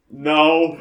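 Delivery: mock flat refusal laughing. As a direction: blurt it and crack up. Husband's reply then laughs.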